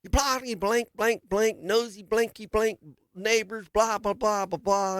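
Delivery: imitating the neighbor yelling, half in fun; retold cussing. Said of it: "he starts yelling at me".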